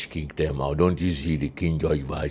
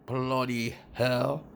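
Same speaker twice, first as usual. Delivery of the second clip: exasperated curse; 7 semitones higher, 4 dB quieter, slower than usual. Acted. Aftermath of cut-off report.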